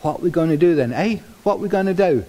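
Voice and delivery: a hint of badly faked Cockney; lightly put-on Cockney accent; rotten cockney. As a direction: attempt a Cockney vulture, not very well. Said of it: "Excuse the rotten cockney, uh, uh, accent".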